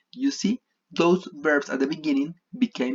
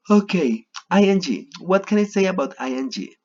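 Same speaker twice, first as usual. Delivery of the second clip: higher, louder, bright teacher energy; energetic restart; 7 semitones higher, 4 dB louder than usual. Real, not acted. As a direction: announce the new topic with a lift.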